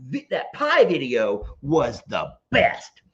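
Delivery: hammed-up emphatic reading with big swoops; all-caps voice. Streamer reading out Lester's all-caps comment, mock dramatic. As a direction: play up the comment's capitals. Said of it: "so I'm gonna talk in all caps".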